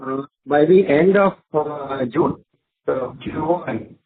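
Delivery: muffled and hard to hear. Real, not acted. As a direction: speak as if through a covered mic. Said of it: "His voice is not audible".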